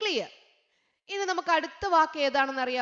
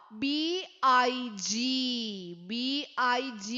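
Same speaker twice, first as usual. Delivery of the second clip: slow spelling; 2 semitones lower, much slower than usual. Shown as a demonstration. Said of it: "വലുതിൽ എഴുതിയിരിക്കുവാ".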